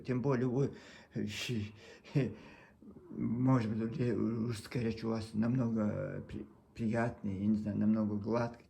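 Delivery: usual speaking voice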